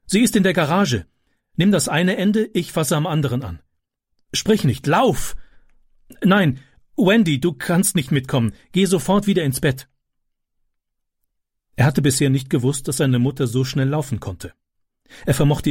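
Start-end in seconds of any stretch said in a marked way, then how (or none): 0.0-9.9 higher, brisk commands; urgent orders. Acted. Mother giving quick orders to Francis and Wendy. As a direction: hurry them along. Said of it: "rief sie".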